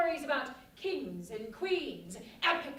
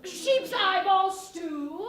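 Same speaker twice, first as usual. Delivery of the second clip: hopeful offer; 5 semitones higher, 7 dB louder, much slower than usual. Acted. Innkeeper offers odd dishes.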